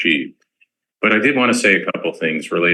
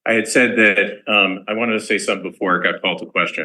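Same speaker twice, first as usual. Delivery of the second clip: commencement voice; 3 semitones higher than usual. Real, not acted. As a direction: speak up like a commencement address. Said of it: "All right, commencement voice".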